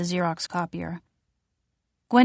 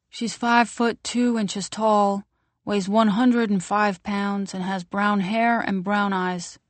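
news anchor read; 2 semitones higher than usual. Acted. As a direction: read it like a TV bulletin. TV missing-person announcement.

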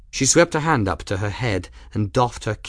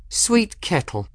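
needling greeting; 9 semitones higher than usual. A narrator's reading. Ransom needling Kettle.

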